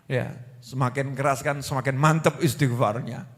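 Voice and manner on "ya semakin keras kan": ordinary talk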